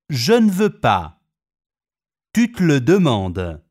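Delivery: "Je ne veux pas" with the mute e swallowed; dropped e caduc. Shown as a demonstration. Teacher showing e caduc in fast French speech. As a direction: run the short words together and drop the e. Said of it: "due o tre monosillabi".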